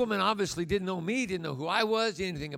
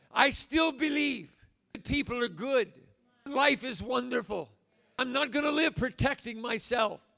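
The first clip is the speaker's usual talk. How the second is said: preaching at full force; 2 semitones higher than usual. Acted. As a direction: voice the childlike spirit with conviction. Preacher voicing child's spirit.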